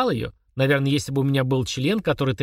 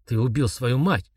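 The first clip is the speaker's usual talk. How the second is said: robotic repetition. Acted. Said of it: "как робот повторил он".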